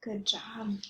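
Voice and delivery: soft whispered praise. Real, not acted. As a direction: whisper it gently. Librarian praising softly after gasp.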